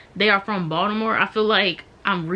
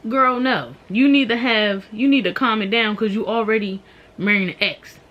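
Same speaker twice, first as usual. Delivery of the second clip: louder, higher sisterly telling-off; mock scolding with a raised voice; 3 semitones higher, 5 dB louder than usual. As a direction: tell her off, emphatic and exasperated. Scolding the bridezilla sister, acted.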